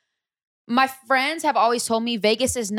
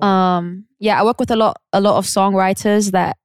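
British accent; 3 dB louder than usual. Shown as a demonstration. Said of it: "I'm good at a British accent".

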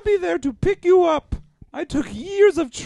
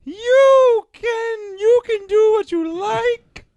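a singer's cry; 3 semitones higher, 4 dB louder, slower than usual. Acted. A singer's character crying out.

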